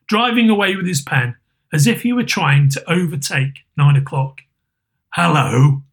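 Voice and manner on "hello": feigned gruff growl; put-on surly greeting; Scrooge's growl. A narrator's reading. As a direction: growl like a grumpy old boss. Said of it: "growled Scrooge in his accustomed voice".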